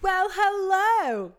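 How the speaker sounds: slow, high, loud welcome; show host voice. Acted. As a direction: greet like a big TV host. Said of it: "I love the way you act like you haven't already been here".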